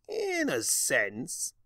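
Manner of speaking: slow, knowing tease; lightly voiced sly Discord; drawn-out Discord. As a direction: savor the words smugly.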